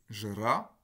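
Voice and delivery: "jra" with its unstressed A slightly centralised. Shown as a demonstration. Lecturer demonstrating Russian vowel reduction, "jra" with centralised A. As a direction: say "jra" as Russian, the A pulled a little toward mid-mouth. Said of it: "le A devient un A un petit peu centralisé".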